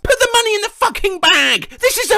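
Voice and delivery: high, loud, fast robbery demand; robber shout. Acted. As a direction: bark it like a holdup man.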